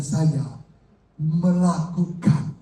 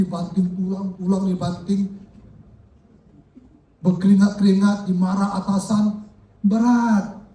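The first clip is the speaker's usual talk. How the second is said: complaining husband; 3 semitones higher than usual. Retold or imitated. Husband complains to wife in story.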